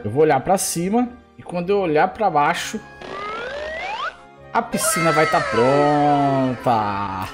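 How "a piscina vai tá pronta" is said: slow dramatic reveal. Acted. Magic trick pool reveal.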